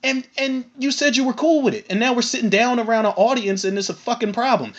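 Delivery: high-pitched, incredulous objection; acted-out indignant disbelief; confused protest. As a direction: voice a friend baffled at being turned on. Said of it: "I'm just as confused as he is".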